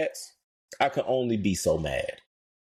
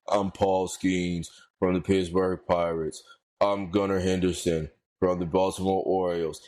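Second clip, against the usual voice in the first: mock the sleepy commercial intro; lifeless ad read; 4 semitones lower than usual. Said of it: "They all talk like".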